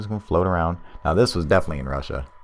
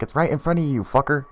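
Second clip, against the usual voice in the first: high-pitched imitation of a yelling friend; mock exasperated yell; 9 semitones higher than usual. Friend directing a man to the light, mock yelling. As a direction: holler it high without much extra volume. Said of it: "his friend is yelling at him".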